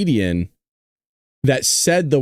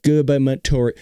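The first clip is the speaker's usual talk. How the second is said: rushed gubernatorial, syllables slurred together; quick tongue-twister try at gubernatorial; said fast. Shown as a demonstration. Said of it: "But say it fast".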